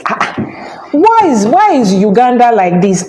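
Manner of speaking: incredulous, half-joking why; bewildered traveller's complaint; mock disbelief. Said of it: "I was like".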